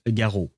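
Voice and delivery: "Garot" with a French throaty R; short, falling French "Garot", silent T; French pronunciation. Shown as a demonstration. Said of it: "That's how we say it in French".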